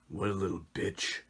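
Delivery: fast grim whisper; whispered muttering. Acted. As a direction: mutter it fast under your breath. Cat mutters to himself.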